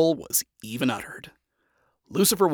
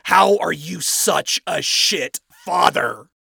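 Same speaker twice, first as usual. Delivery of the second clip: slow, loud, exasperated snap; angry snap; 6 semitones higher, 9 dB louder, slower than usual. A narrator's reading. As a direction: snap it out, louder and higher. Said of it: "snapped, hissing it out to avoid yelling".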